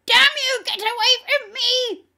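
high, screamed curse; demon's shriek. A narrator's reading. Demon cursing the holy visitor away, shrieking. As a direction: scream to drive them off. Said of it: "the demon shrieked".

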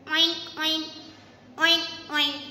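grunting oinks; pig oink. Shown as a demonstration. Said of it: "A pig says".

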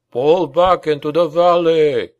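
loud, desperate shouted order; despairing command. Acted. Baron commanding his men to retreat, loud desperate shout. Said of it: "cried the Baron in a despairing voice".

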